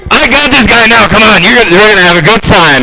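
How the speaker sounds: lightly voiced spirit rallying its gang; evil spirit. Evil spirit inviting others to a party, eager. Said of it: "this evil spirit's telling everybody else".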